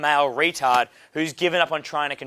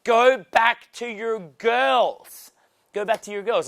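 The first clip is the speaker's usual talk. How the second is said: imitating shooing him off; 7 semitones higher, slower than usual. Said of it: "I'm like".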